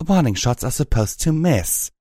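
sharp stern rebuke. A narrator's reading. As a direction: scold firmly. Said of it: "Velvet Remedy barked sternly".

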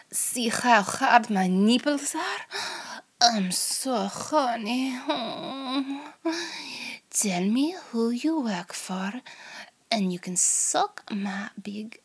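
whispered Russian spy interrogator; hammed-up Russian accent, hushed start; over-the-top Russian accent. Interrogator taunting the captured American spy in a Russian accent. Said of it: "in a Russian voice".

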